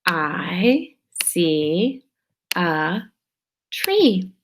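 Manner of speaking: slow reading aloud. Shown as a demonstration. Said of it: "And then it says".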